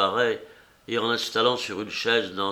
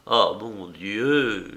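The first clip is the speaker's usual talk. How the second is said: groan; much slower than usual. Acted. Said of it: "gémit le pauvre garçon".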